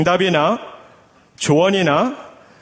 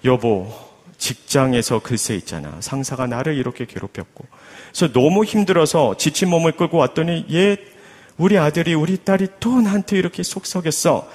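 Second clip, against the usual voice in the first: wife complaining. Acted. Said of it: "남편에게 하소연을 하는 겁니다".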